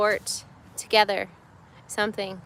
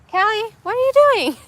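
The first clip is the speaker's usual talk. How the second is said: raised, high calling voice; 10 semitones higher, 4 dB louder, faster than usual. Real, not acted. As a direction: call across the room. Mom calling out to child.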